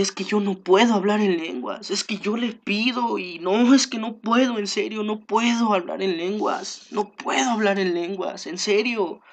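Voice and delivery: mild imitation of a distressed believer; plaintive, quietly pleading; sad. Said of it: "se ponía triste y me decía".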